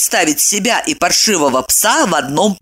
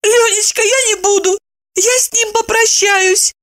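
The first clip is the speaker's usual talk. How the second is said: much higher, pleading woman's voice; tearful promise. A narrator's reading. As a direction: promise through tears. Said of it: "пообещала она".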